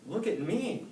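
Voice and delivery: high, loud amazed cry; amazed at his own change; gasped. A narrator's reading. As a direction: snail seeing his new magic look. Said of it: "he gasped".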